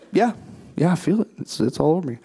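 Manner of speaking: a casual, offhand shrug of a reply; unbothered and matter-of-fact; nonchalant. Retold or imitated. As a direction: say it like it's nothing special. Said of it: "just, just nonchalant".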